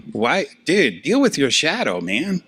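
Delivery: playfully exasperated, swooping up high; mock exasperation. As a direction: plead like a fed-up buddy. Mock retort to the projecting person.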